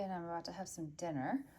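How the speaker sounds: speaking through a swollen lip; barely open mouth. Real, not acted. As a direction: talk without opening the mouth wide. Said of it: "sorry if my voice sounds a little funny".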